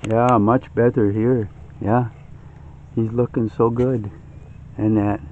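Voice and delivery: hushed so as not to scare the turkeys; wildlife watching whisper. Real, not acted. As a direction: keep it low near the animals. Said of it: "trying to keep a little bit quiet so I don't scare 'em".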